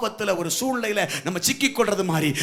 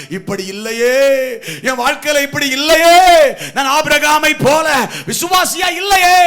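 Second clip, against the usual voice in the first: from pleading to shouted anguish; bitter weeping prayer; 8 semitones higher, 10 dB louder than usual. Acted. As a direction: lament building to a high, loud wail. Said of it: "மனம் கசந்து அழணும்".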